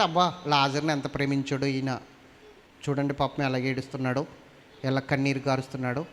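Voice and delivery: lightly voiced bystanders feeling sorry; onlookers musing. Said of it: "అనుకుంటున్నారట".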